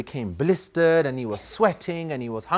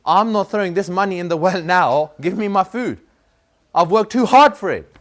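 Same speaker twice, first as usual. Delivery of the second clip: put-on louder, a boy fed up with his dad's demand; indignant protest; 3 semitones higher, 4 dB louder than usual. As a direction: push back hard, loud and hurt. Son protests to his father.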